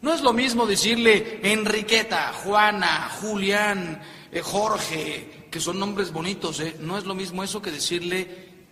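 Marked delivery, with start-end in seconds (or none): 1.4-5.5 calling by name. Shown as a demonstration. Calls plain names versus endearments.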